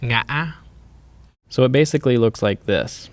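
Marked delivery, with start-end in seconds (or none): 0.0-0.5 "Ngã" cut mid-vowel, then rising; "Ngã" in two pieces, the second climbing; broken rising tone. Shown as a demonstration. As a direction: close the throat inside "Ngã", reopen going up. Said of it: "your voice will continue with the rising tone".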